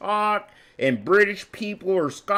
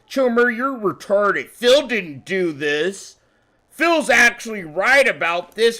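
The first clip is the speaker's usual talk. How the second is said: a bit higher and louder, straight-talking American; blunt American voice; 4 semitones higher, 4 dB louder than usual. Retold or imitated. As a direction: say it like a plain-spoken American friend. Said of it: "like an American".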